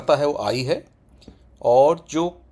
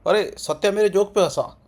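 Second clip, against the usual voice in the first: casual spoken tone; 5 semitones higher than usual. Shown as a demonstration. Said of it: "ऐसे बोलते हैं".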